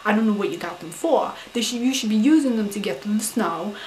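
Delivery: retold scolding rant. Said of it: "I said".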